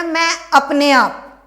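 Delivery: slow, punched अपने आप; stress on अपने आप. Shown as a demonstration. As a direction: lean hard on अपने आप. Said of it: "तो स्ट्रेस सेकंड वाले में जाएगा ना".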